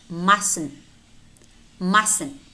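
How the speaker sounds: mustn't as "mussn't"; silent T. Shown as a demonstration. Teacher models silent letters for learners, silent T in mustn't. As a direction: drop the first T in mustn't. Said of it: "but it's not pronounced".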